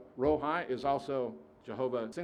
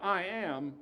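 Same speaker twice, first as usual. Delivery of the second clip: \"I am\" with am pressed firm and a touch higher; stress on am; 6 semitones higher than usual. Shown as a demonstration. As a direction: lean on am. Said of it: "It's not "was," it is".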